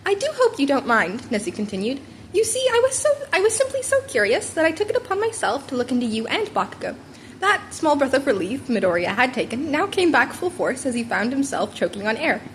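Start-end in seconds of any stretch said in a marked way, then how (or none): 0.0-7.0 higher, curious principal; lightly voiced sly animal principal; a hint of a pleased, scheming mentor; Nezu voice. Nezu continues.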